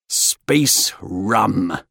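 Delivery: mildly impressed approval; approving. A narrator's reading. Crewmate after emptying his glass, approving. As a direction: savour it with approval. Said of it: "Fenton said approvingly".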